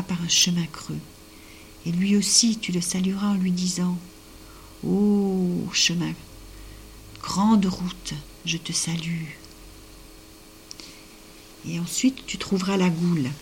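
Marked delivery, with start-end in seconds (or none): 4.8-9.3 slow, stretched-out hail; grand salutation. A narrator's reading. Telling the girl how to greet the path, slow solemn salutation. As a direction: draw out the Ô like an invocation.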